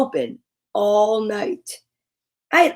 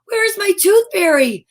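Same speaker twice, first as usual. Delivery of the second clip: petulant demand; 4 semitones higher than usual. Acted. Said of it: "I said, stomping my foot".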